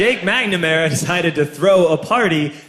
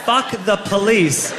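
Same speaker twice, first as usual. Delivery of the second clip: half-earnest slow holler, climbing at the end; mock yelling; 3 semitones higher, slower than usual.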